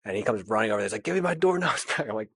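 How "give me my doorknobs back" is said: mock whiny kid. Kid demanding doorknobs back.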